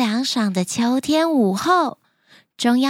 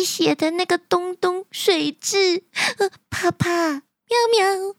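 nervous; 2 semitones higher than usual. Acted. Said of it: "猫猫塔可紧张着说".

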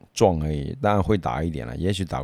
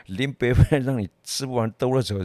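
retold tough threat, pitched higher; Taiwanese-style threat; 5 semitones higher than usual. Older brother threatens the bully, Taiwanese-style tough talk. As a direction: imitate a protective brother talking tough. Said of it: "就好像台语讲的".

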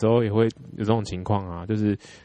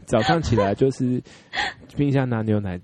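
put-on ABC accent. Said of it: "你不错".

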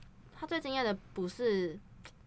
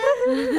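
高声大笑; 14 semitones higher, 8 dB louder than usual. Real, not acted. 聊到好笑片段.

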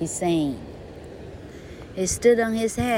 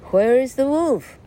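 urgent call; 7 semitones higher, 6 dB louder than usual. Acted. Father running up the hill.

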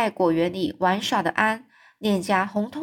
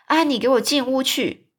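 stern, raised command; angry order; 5 semitones higher, 4 dB louder than usual. Acted. Marilla ordering Anne indoors, angry and raised. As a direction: send her inside, cross. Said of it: "非常生气地说".

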